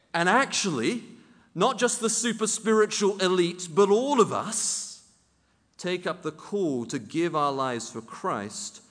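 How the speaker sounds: rally the whole church to the call; impassioned pulpit appeal; preaching at full force. Real, not acted. Preaching climax.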